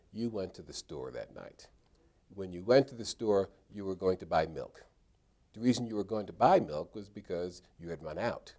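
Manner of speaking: statements with a falling end on each sentence; questiment tone. Shown as a demonstration. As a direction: lead the witness, stating it as fact. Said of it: "Each of those sounds like a statement".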